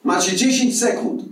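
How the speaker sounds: high-pitched officious ultimatum; threatening officer. Acted. Officer threatens the row of men. (groźba wściekłego strażnika)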